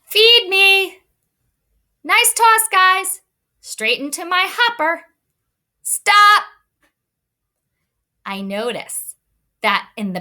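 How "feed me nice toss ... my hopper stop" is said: high, loud hungry truck demand; big truck voice. Shown as a demonstration. Teacher reading the hungry truck to the class, voice made bigger. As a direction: make your voice bigger on feed me and stop. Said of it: "I made my voice a little bit bigger".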